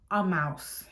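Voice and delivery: breathless whisper of dread. Retold or imitated. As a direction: whisper it like you can't believe it. Spotting the mouse.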